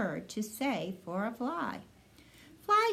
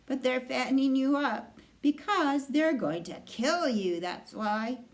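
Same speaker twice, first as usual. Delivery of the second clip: old sheep breaking bad news; 4 semitones higher, 4 dB louder than usual. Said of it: "I don't like to spread bad news".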